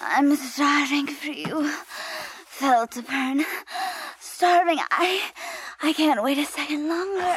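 passionate. Acted. Lady's passionate plea.

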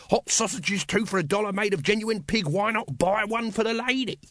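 high, singsong hawker's pitch; street vendor's cry. Acted. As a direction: cry the wares to the crowd. Vendor breaks into sales cry.

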